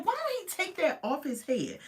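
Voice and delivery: retold exasperation. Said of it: "I said".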